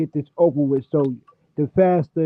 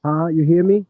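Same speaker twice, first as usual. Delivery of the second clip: muffled; 4 dB louder than usual. Real, not acted. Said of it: "You sound muffled".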